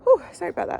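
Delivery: startled cough after swallowing a fly; real splutter, clearing throat; just swallowed a fly. Real, not acted. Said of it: "I swallowed a fly while I was talking to you".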